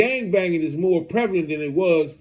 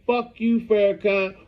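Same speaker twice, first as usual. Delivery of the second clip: half-hearted impression of an online rant; retold cursing rant; 5 semitones higher than usual. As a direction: imitate him cussing everyone out, voice pitched up. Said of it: "He's saying".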